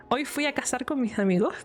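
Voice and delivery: relaxed regional Spanish, s in "cazar", aspirated endings; own regional Spanish accent. Shown as a demonstration. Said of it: "But in my accent, that would be".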